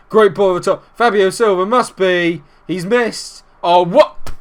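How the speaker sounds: loud, high live call rising to an outcry; excited, turning to disbelief. Real, not acted. Gamer watching his striker miss, excited then disbelieving. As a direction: build with the chance, then cry out.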